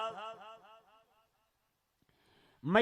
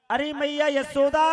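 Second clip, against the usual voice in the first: louder and higher call, rising at the end; 6 semitones higher, 4 dB louder than usual. Acted. Uddhav calls Yashoda again, louder call. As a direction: shout her name much harder this time. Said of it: "जोर से आवाज लगाई".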